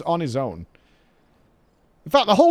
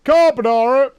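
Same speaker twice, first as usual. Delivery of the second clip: loud, high, drawn-out chant-like yell; rowdy Brit shouting; 7 semitones higher, 7 dB louder than usual. Acted. Brits entering a restaurant for carbonara, mock rowdy shouting. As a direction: roar it out like lads arriving. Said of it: "That's how we enter the restaurants in the U K".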